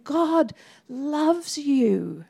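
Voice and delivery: very slow, each word placed; gentle slow declaration. Shown as a demonstration. Telling someone face to face, slow and tender. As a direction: say God loves you slowly into someone's eyes. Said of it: "looking them in the eye and saying".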